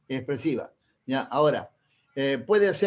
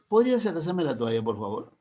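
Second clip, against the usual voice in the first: polite request. Shown as a demonstration. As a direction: ask nicely. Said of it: "igual está mandando, pidiendo". (petición cortés y suave)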